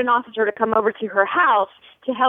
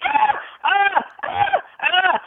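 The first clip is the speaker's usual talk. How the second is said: retold scream; 11 semitones higher, much slower than usual. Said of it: "he screams".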